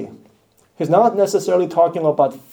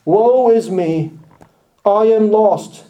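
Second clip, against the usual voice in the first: Isaiah's lament; 5 semitones higher, 4 dB louder, slower than usual. Acted. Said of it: "you will say with prophet Isaiah".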